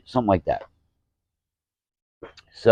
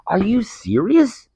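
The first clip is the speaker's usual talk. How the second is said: slow, high, breathless whisper of disbelief; mock shocked whisper at the hecklers; incredulous whisper; 11 semitones higher, slower than usual. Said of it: "now I'm pissed".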